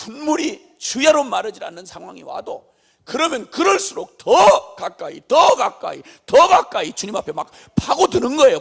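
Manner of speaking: loud, fervent, hammered repetitions; full-force preaching. Acted. Preacher urging people to press closer to God, fervent shouting. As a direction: lean hard into every repeated phrase.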